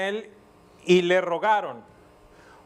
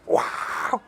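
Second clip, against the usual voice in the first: awed wow. Real, not acted. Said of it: "¡Qué impresionante!".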